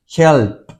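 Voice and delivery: "Help" with the final p released as air; voiceless P. Shown as a demonstration. Teacher shows students the silent p, "Help" ending in an airy pop. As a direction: end "Help" on a separate puff, no voice. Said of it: "esta P no tiene sonido".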